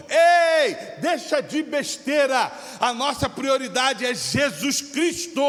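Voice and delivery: a sudden loud "Ei" then slow, firm, loud words; rebuking shout. Real, not acted. Pastor rebuking the church for chasing money, a loud slow call-out. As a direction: snap them out of their nonsense, slowly.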